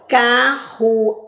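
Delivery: slow "Carruagem" in four separate beats; syllable by syllable. Shown as a demonstration. Teacher dividing a word for pupils, "Carruagem" syllable by syllable. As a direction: break it up: car, ru, a, gem. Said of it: "Tem quantas sílabas?".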